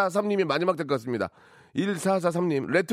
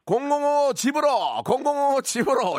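mock caster call; 7 semitones higher than usual. Host mocks the caster call.

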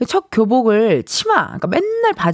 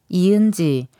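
stern full-name call; 4 semitones lower, slower than usual. Retold or imitated. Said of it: "이름을 성자까지 붙여서 부르는".

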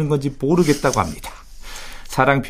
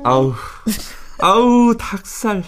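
cringing disgust; 6 semitones higher, slower than usual. Real, not acted. Cringing at couple.

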